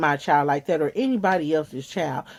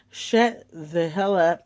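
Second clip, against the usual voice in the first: mock mom yelling; much slower than usual. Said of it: "She yells out".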